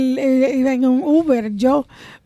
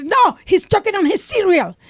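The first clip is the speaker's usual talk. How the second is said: high alarmed parent; mock panic at the table; 5 semitones higher than usual. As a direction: panicky call for help, hammed-up. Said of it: "then you realize".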